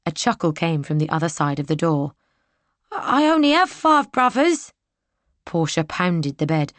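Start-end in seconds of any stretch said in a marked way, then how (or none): 2.9-4.7 put-on amused young soldier. Soldier chuckles back.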